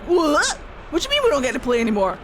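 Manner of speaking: lightly voiced affronted god; mock indignation. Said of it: "the Evan Uris were like".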